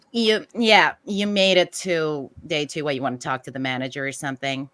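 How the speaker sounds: entitled Karen, loud start. Acted. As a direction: demand the manager. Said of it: "channel the Karen".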